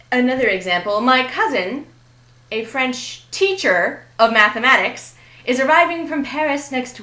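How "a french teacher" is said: French TEACHER, two separate words; noun-phrase stress on teacher. Shown as a demonstration. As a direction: give French its own beat, then lean on teacher. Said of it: "French here is modifying teacher".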